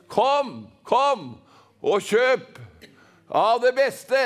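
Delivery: separated, proclaimed calls; calling out. Acted. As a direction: summon the crowd with a mild cry. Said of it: "står frem og roper ut".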